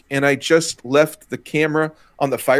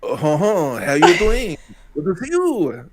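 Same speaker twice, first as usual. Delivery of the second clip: hammed-up mock French accent; terrible French accent; 2 semitones higher, slower than usual. Co-host outdoing the host's attempt, terrible French accent. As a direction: greet in a deliberately bad French accent. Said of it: "with that terrible accent".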